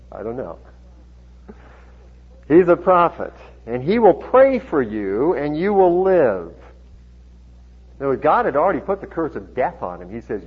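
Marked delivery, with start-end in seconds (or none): 2.5-6.5 slow, projected Bible reading; measured pulpit reading voice; scripture reading. A narrator's reading. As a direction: read the promise out deliberately. Reads scripture aloud to congregation.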